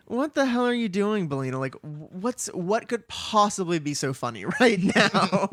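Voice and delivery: lightly acted incredulous questioning; exasperated questioning. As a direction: ask in mock disbelief, stretching it out. Acted exasperated question to laughing Billina.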